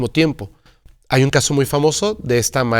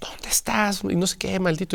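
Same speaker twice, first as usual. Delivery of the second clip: put-on furious hushed whisper; 6 semitones higher, 8 dB quieter than usual. Speaker retells how a man's wife called him at his office: imitating a furious wife. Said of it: "me parece que era furiosa y le dice".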